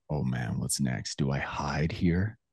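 low, soft, slow inner voice; slow, hushed wondering, unsure; tentative. Retold or imitated. Imagining a boy seeing his father, tentative. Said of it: "this tentative feeling of".

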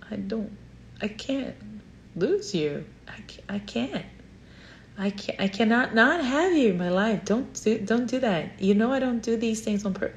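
high, pleading, near tears; tearful pleading. Retold or imitated. Niece begging her aunt for forgiveness, tearful and pleading. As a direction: beg her not to leave, voice breaking.

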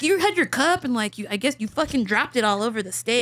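amused friend. Retold or imitated. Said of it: "She's like".

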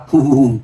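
spoken-out fake boo-hoo; mock wailing sobs. A narrator's reading. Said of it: "ngồi bệt xuống đất gào khóc". (tiếng khóc hu hu giả vờ)

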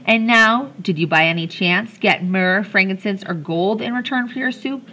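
lightly voiced taunting question; mild mock curiosity. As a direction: needle him with a sly question. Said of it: "she mocked".

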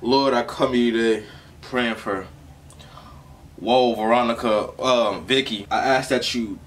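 halting mock prayer, a bit subdued. Reactor praying for Whoa Vicky, halting mock prayer. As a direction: pray haltingly, losing the name midway. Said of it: "Can we say a quick prayer?".

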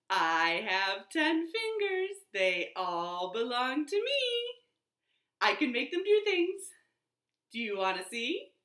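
put-on bouncy chanted rhyme for kids; fingerplay rhyme. Librarian leads toddlers in a finger rhyme, bouncy chant. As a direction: lead the children through the rhyme.

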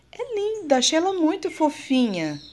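put-on high, cooing baby-talk voice; cutesy baby talk. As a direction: gush over it like a baby. Cooing over a small plant.

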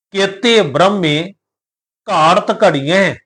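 slow, measured recitation of the verse; scripture recitation. Shown as a demonstration. Teacher reciting Gurbani to the sangat, slow and measured. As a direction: intone the line with care.

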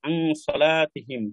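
আংসলাতিহিম said very slowly, syllable by syllable; very slow, careful. Shown as a demonstration. Teacher slowly models the whole word আংসলাতিহিম. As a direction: spell out আংসলাতিহিম by ear. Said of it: "তাহলে আংসলা".

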